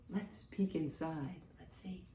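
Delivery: soft, hushed voice; hushed peek. Acted. Teacher hushing the class while peeking into the orange egg. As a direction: lean in and go very quiet.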